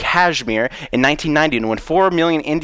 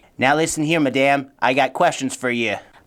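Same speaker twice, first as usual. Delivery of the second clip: put-on country lawyer accent. Acting a simple country lawyer questioning a witness: put-on country lawyer accent. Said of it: "I may be a simple country lawyer".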